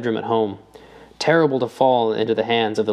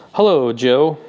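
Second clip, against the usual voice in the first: a friendly call across the dark; 5 dB louder, slower than usual. A narrator's reading. Old friend calling out to Joe from the shadows, friendly. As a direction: call his name from the bench. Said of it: "a familiar voice called".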